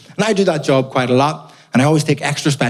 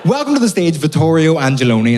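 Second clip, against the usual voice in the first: announcer voice; 3 semitones higher than usual. Shown as a demonstration. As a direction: introduce yourself like a compere. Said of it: "pre-record me welcoming me to the stage".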